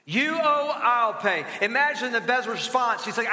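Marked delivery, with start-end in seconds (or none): 0.0-1.5 "You owe, I'll pay" pushed up, with "I'll" hit hard; louder, stressed restatement. Shown as a demonstration. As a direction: proclaim "I'll pay" firmly. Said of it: "Here it is".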